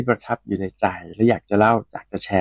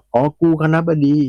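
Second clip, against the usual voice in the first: imitated shouted reply; 6 semitones higher than usual. Dean answering the drunk student, mock shouted reply. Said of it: "ชายคนนั้นก็เลยตะโกนตอบกลับมาว่า".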